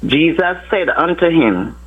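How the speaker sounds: slow, measured Bible reading; scripture reading. Acted. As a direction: read the verses with reverent pauses. Caller reads scripture aloud.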